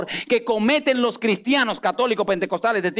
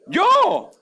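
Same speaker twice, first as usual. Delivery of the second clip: incredulous squeak; 13 semitones higher, 3 dB louder than usual. Acted. Moses stunned at his calling.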